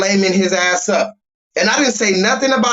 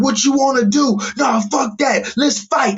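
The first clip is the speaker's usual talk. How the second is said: mock aggressive dude; 6 semitones higher than usual. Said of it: "got in my face like".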